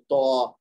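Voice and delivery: توا said thick and heavy. Shown as a demonstration. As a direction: round out توا so it is not تا. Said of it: "تھوڑی سی موٹی کر کے آواز نکالیں گے". (موٹی آواز میں توا)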